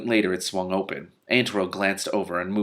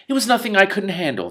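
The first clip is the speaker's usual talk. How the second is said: much higher, louder blustering villain; high defensive boast; 12 semitones higher, 5 dB louder than usual. Acted. Vamis insists to Antorel he handled it, high bluster. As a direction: brush it off too loudly. Vamis brags despite scratches.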